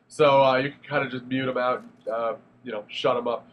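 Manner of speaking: blocked nose from a head cold; stuffy nose. Real, not acted. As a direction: speak through a stuffy cold. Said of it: "I'm sorry if I sound all stuffy. I do have a cold".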